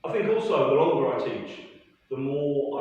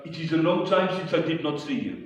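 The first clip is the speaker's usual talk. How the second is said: mock French student; 6 semitones higher, 5 dB louder, faster than usual.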